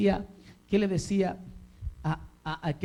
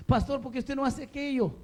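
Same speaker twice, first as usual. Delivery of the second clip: higher-pitched questioning of the pastor; lightly acted church member; 7 semitones higher than usual. Member questions the pastor's choices, lightly acted and higher. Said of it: "A veces usted puede decir".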